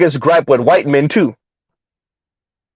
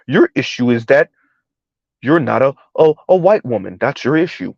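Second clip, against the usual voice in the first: Bartholomew the third voice; 5 semitones lower than usual. Retold or imitated. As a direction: talk down low and smooth like a snooty gent. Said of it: "they put on the Bartholomew the third voice".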